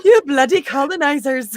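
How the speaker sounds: hammed-up Wakandan accent, laughing; mock Wakandan accent. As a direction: spit out the insult in a jokey Wakandan accent. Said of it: "I can't do the Wakandan accent".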